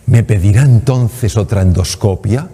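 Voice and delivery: slow, imitating a pleading patient. Patient begs her doctor for another test, slow pleading. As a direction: beg for it like a gift, slowly. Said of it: "me pide como en tono suplicatorio".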